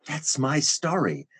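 high-pitched mock defiance; acted indignant protest. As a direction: argue back, pitch pushed right up. Acted protest against wife's suggestion.

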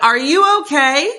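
loud, high, laughing are you okay; laughing mock concern. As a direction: ask it through laughter. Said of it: "I'd be like".

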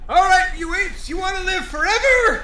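drill sergeant shout. Acted. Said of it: "something about a fight?".

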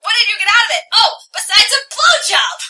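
angry rant building to a high shout; escalating, outraged tirade; acted scream. A narrator's reading. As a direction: start heated, climb to a loud shriek. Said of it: "I scream".

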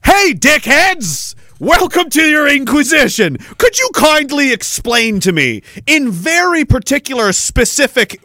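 mock-polite interrogator addressing officials; mock inquisitor. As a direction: greet them like a sarcastic inquisitor. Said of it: "I'll be that special rapporteur".

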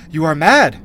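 loud, indignant retort, read in character. A narrator's reading. Queen to the intruder in her chamber, indignantly. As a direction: push out a regal rebuke.

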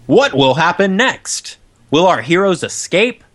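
dramatic serial announcer voice; announcer outro. Acted. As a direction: tease the next episode.

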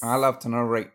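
Morgan Freeman impression. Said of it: "Morgan Freeman when he does".

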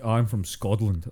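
SCOTLAND said slowly as "Scodland"; mock D pronunciation. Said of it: "People who say "duh".

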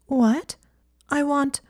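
high-pitched sulky protest; sulky, indignant objection. A narrator's reading. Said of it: "looking visibly sulky".

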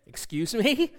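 high-pitched, affronted question; "how dare you" questioning tone; indignant disbelief. Retold or imitated. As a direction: act taken aback, pitch lifting sharply at the end. Fiancée objects to double standard.

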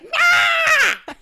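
loud, high laughing dragon roar; dragon noise. Retold or imitated. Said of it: "That's like my dragon noise".

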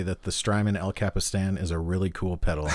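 dry, faux-dramatic understatement; mock-bold deadpan. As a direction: announce the obvious like a bold claim. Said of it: "go out on a limb here and say".

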